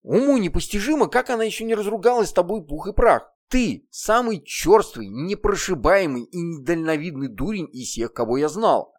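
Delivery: angry scolding. Acted. Heroine berates demon.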